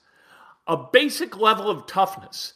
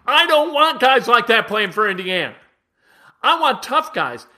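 louder, punching each word; emphatic outburst; 4 semitones higher, 5 dB louder than usual. Real, not acted. Host venting about the Indiana team, louder and emphatic. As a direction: slam the table and demand toughness. Host's rant after mocking nice guys.

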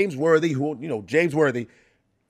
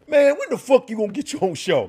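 lightly voiced street fan, pitched up; calling fan; 8 semitones higher, 3 dB louder than usual. Garbage man calling to the comic, high mock holler. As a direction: call it out with a high, indignant push.

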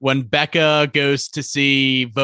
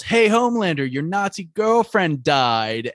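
heckling yell; 5 semitones higher than usual. Retold or imitated. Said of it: "someone in the crowd yells".

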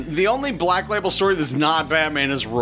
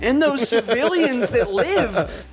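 much higher, thrilled storytelling; excited; 12 semitones higher than usual. Real, not acted. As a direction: gush about the ending. Excited retelling of the ending.

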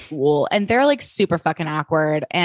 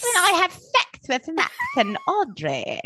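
slow, high and giggling; laughing mock quote; 8 semitones higher, slower than usual. Re-quoting Aki's Thanksgiving line to her co-host, through laughter. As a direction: quote him while cracking up.

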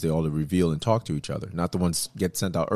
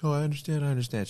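higher-pitched imitation of an upset girl; imitated tearful acceptance; 8 semitones higher, 4 dB quieter, faster than usual. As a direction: retell her tearful reply in a raised voice, without real crying. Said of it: "the girl cried and was like".

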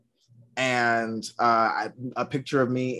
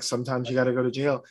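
imitating an unmoved sister, quick and even; stone-faced deadpan; faster than usual. Little sister shrugs off brother's jail trip, stone-faced. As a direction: deliver it matter-of-fact, no sympathy. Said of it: "stone-faced".

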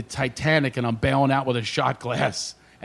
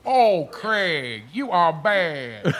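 slow, drawn-out teasing "Oh, Craig, you are bad"; Magic impression; much slower than usual. Comic imitating his co-host on the talk show. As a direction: imitate Magic stretching out the words. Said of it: "He goes".

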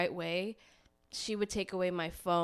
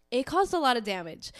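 shaky sigh; 4 semitones higher, 6 dB louder than usual. Real, not acted. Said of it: "I'm trying not to cry".

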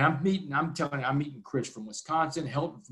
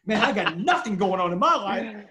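louder and higher, thrilled at the offer; can't believe his luck, almost laughing; excited disbelief; 4 semitones higher, 4 dB louder than usual. Real, not acted. Excited about the speaking invite.

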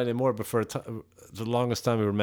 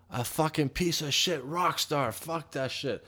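angry retort; 4 semitones higher, 6 dB quieter, slower than usual. Retold or imitated. Cuts in on manager's excuse, still fuming.

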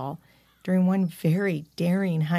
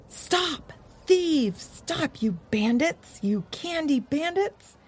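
high-pitched outraged calling; distant yelling; 10 semitones higher, slower than usual. A narrator's reading. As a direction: call out high as if from down the road. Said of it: "They heard voices from down the road yell".

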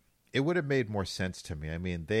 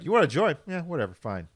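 high, loud, hammed-up shrug; mock careless Batman; 9 semitones higher, 6 dB louder, faster than usual. Mocking new Batman's careless invite, high and loud. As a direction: offer it like you couldn't care less.

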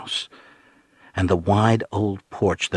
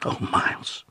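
whispered, softer sigh of a name; 5 dB quieter than usual. A narrator's reading. Woman turning to her companion in dismay, softly. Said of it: "she said softly".

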